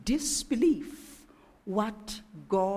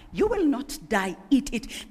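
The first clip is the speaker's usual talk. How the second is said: a lightly voiced, coaxing tempter; tempter's voice; 2 semitones higher, 3 dB louder than usual. Preacher voicing the tempter to the women: lightly coaxing. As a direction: nudge them gently toward the fruit. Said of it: "That is how a tempter sounds like".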